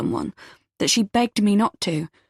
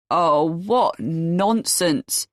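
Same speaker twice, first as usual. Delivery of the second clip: dismissive scoff; much slower than usual. Acted. Uncle dismissing her.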